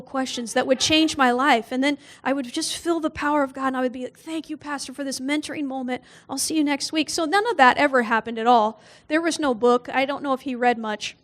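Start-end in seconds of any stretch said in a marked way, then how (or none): 4.2-7.1 softer, hushed mock gratitude; hushed and starry-eyed, gently mocking herself; mock reverent thanks. Young minister mockingly thanks her pastor, softly and reverently.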